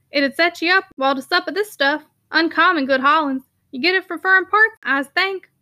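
jovial broad northern workman; Yorkshire constable voice. Acted. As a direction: coax him like a bluff Yorkshireman. Sugden voiced by narrator.

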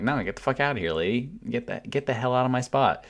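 mildly irritated, shooing someone away; retold telling-off. Concertgoer telling a queue-cutter to leave, mildly indignant.

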